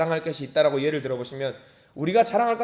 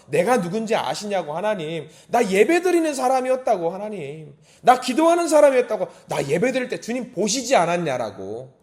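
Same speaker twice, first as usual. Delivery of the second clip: high, insistent appeal, rising to loud peaks; bold protest; 5 semitones higher, 5 dB louder than usual. Acted. Believer before an angry God, boldly insisting on being remembered. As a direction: demand recognition like a confident child. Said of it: "그 자녀가 당당하게".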